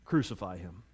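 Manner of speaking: low, hushed retelling of a crowd's shout; understated retold shout. Crowd answers Pilate, shout retold low and quiet. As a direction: report the shout very softly and low. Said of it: "And they shouted back".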